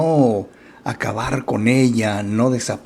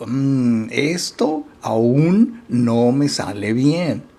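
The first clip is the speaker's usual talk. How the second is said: gentle self-talk; much slower than usual. Shown as a demonstration. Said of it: "Fíjate cómo cambia la intención".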